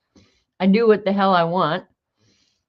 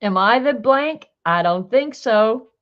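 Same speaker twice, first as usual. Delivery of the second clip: high, smug, slow cat line; 4 semitones higher, 4 dB louder than usual. Acted. Reading a smug cat caption aloud, slow and smug. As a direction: let the smugness drag.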